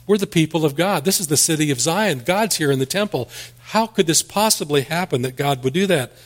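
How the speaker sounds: mock bewildered protest; disbelieving surprise. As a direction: voice the people's stunned disbelief. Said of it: "like it was some kind of a surprise to them".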